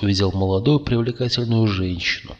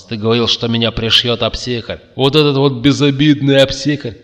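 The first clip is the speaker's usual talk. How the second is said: raised, incredulous outburst; stunned exclamation; 4 semitones higher, 6 dB louder than usual. A narrator's reading. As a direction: rise to loud, high disbelief. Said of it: "ошалело воскликнул Макс". (ошалело, на повышенных тонах)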